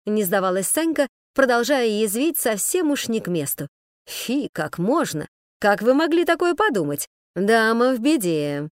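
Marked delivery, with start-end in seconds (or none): 4.0-8.7 nasal monotone. Acted. Man mockingly drones at Sanka, nasal monotone. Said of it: "затянул он вдруг гнусавым тоном на одной ноте".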